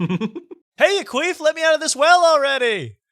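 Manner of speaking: screeching high voice, second try; high-pitched shriek. Retold or imitated. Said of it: "Let's start again".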